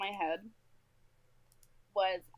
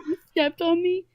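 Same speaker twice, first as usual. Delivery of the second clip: indignant little brother; 8 semitones higher, 9 dB louder than usual. Retold or imitated. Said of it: "He was like".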